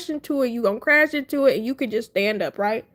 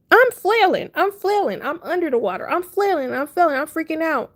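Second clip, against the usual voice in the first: mock panic; 4 semitones higher than usual. Re-enacts panicking under water.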